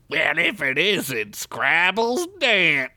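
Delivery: slow, sneering gang leader; villain leader voice. Acted. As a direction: drawl it out like a smug bandit boss. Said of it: "said a red Ant-Man who".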